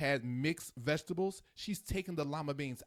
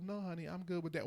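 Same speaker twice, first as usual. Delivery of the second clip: soft, agreeable mock husband reply; a hint of a dutiful husband; placating husband; 3 semitones higher, 6 dB quieter than usual. Every husband softly answers his wife. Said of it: "look at their wife and just go".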